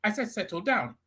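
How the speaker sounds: host raising pitch to restore order; firm settle down. Real, not acted. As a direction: moderator cutting through a heated debate, firmly. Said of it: "And when I say settle down".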